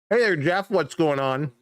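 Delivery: talking through a mouthful; mouth full. Real, not acted. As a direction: say it while chewing. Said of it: "Don't wanna talk with my mouth full".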